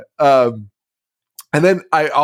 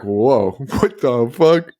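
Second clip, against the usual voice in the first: confused Steve; much slower than usual. Retold or imitated. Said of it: "imagine he's like".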